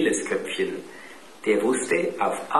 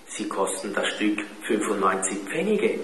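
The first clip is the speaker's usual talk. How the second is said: sighing. A narrator's reading. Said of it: "seufzte Klaus".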